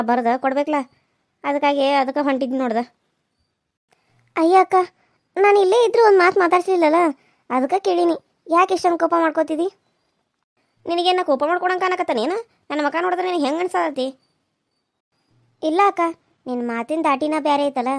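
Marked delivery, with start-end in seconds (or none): 4.4-14.1 higher, a little louder village woman; pressing village neighbour. Acted. Neighbour asks Raji akka why she is angry, higher pitch. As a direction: plead to know why she is cross.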